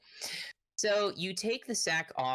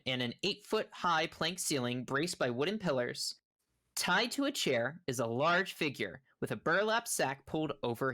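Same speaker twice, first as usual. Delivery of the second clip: measured game master narration; scene description read-aloud. A narrator's reading. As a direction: read the room out for the players. Reads boxed description aloud.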